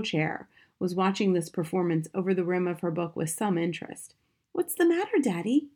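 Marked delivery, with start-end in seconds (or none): 4.5-5.7 put-on high, childlike question; innocent little girl. A narrator's reading. Daughter to father stuck in his hat, innocent. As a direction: ask Daddy innocently, pitched well up.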